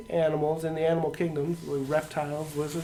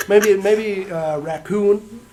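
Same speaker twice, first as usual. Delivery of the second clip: laughing; 5 semitones higher, 10 dB louder, much slower than usual. Real, not acted. Laughing while answering.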